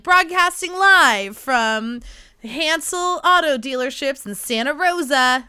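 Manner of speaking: slow, loud radio announcer read; fake radio voice. Shown as a demonstration. Podcaster mocking her old radio voice, fake announcer style. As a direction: boom it out like a car-lot radio DJ. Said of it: "That sounded like such a fake radio voice".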